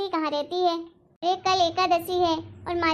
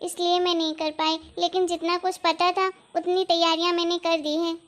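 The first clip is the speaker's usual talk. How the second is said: सास को आदर से, धीमे उतार-चढ़ाव में सफाई देती बहू; नरमी से भरोसा दिलाओ; विनम्र सफाई. Acted. (विनम्र, आज्ञाकारी बहू का लहजा)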